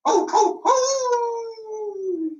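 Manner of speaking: high villainous ho ho ho; a wolf gloating over its prey; wolf laugh. Acted. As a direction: laugh like the big bad wolf.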